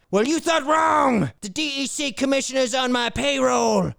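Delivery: 1 mock tough cop. Interrogating a squirrel.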